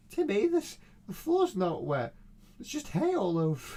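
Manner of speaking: high, loud mock complaint; hammed-up yell at a useless cleaner; mock scolding. Someone complaining to Timmy about the floor, loud mock scolding. Acted scolding over straw mop.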